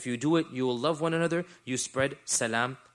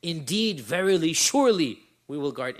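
each of Indeed, verily, surely punched harder and louder; stiff literal translation; 6 dB louder than usual. Shown as a demonstration. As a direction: stack "Indeed, verily, surely" as a mock-stiff triple emphasis. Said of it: "it sounds very dry".

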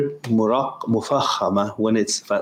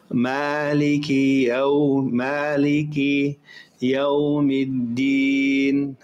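slow careful Quran recitation; much slower than usual. Shown as a demonstration. Teacher reciting Maliki Yawmiddin slowly for students. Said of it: "recites the verse".

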